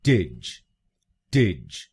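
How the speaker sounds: टिज with a short इ vowel; टिज said alone, clipped; syllable drill. Shown as a demonstration. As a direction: say टिज, not टेज. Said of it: "आखिरी शब्दांश को यानी टीएजीई हम बोलेंगे".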